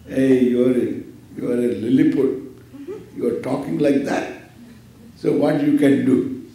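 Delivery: lightly voiced bully sneering at the Lilliput; boasting pot. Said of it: "Suppose this pot boasts itself".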